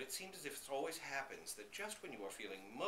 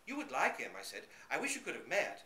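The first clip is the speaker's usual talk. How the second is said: louder, eager dog voice; 2 semitones higher, 6 dB louder than usual. Acted. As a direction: share the good news eagerly. Dog eagerly tells them.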